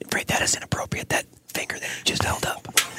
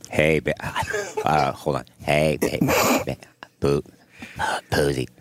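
mock attempt at whispering, too loud; low, loud imitation of a whisper; Freight's failed whisper; 5 dB louder than usual. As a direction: imitate someone who can't whisper. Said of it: "when Freight whispers something in Pooz's ear".

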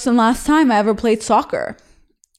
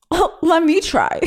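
higher-pitched, cutesy offer to join in; eager volunteering; 7 semitones higher than usual. Retold or imitated. Girl trying to impress her soccer crush, eager and high.

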